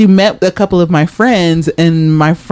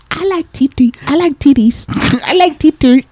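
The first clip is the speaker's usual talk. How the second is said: mock American accent; 9 semitones higher than usual. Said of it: "she was trying to fit in and have an American accent".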